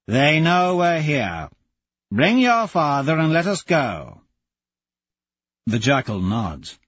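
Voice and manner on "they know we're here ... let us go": urgent Azure. Acted. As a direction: press them to leave now. Azure urging departure.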